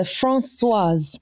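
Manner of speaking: "Françoise" slowly, in two clear syllables; two syllables joined. Shown as a demonstration. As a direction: say "Françoise" slowly as France plus "swaz". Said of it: "that is the second syllable".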